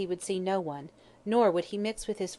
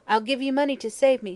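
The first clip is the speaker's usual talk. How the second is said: loud, high desperate bargaining; shriek; 6 semitones higher, 6 dB louder than usual. A narrator's reading. Dying hag bribing the doctor, shrieking. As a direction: shriek the offer out. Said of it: "she shrieked".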